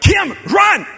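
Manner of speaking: calling out to run; urgent shout. Retold or imitated. Husband shouting to his wife to run, urgent and loud. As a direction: yell it across the airport. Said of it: "So I'm like".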